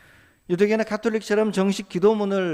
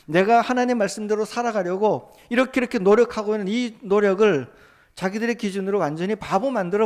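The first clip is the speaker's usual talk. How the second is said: raised, louder pleading prayer; a believer crying out to God over mockery, louder and higher; fervent prayer; 4 semitones higher, 4 dB louder than usual. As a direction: pour out the complaint to God with urgency. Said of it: "이런 이야기를 하나님 앞에".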